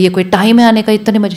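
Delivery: scolding mother. Retold or imitated. Mother scolds daughter for coming home late, in a loud scolding tone. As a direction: tell her off like a stern Indian mother. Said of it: "My mother would have said".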